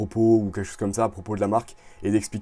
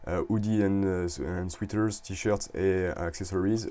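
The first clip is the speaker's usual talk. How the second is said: menu words read in English with a thick French accent, slowly; self-mocking French accent on English words; slower than usual. Real, not acted. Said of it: "vous pouvez noter mon accent anglais".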